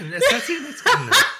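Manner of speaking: laughing. Real, not acted. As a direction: squeal it out laughing. Answering through laughter.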